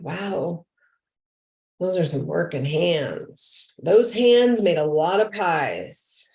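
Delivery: slow, drawn-out admiration; admiring. Retold or imitated. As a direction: marvel slowly at their hands. Admiring a resident's working hands.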